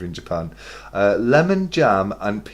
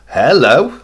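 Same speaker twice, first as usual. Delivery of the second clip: surprised hello; 4 semitones higher, 9 dB louder than usual. Shown as a demonstration. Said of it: "as if to say, "Wow".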